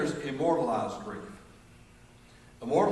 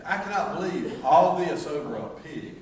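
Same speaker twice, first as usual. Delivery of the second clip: disbelief; 3 semitones higher, 3 dB louder, slower than usual. Retold or imitated. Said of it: "it will drive you thinking".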